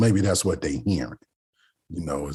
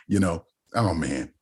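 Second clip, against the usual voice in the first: normal talking voice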